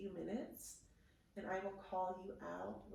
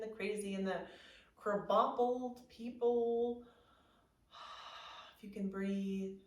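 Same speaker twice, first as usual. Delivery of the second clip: guided meditation. Acted.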